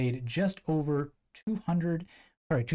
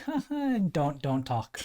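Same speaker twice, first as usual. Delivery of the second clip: mock teasing laugh. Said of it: "and he'd be like".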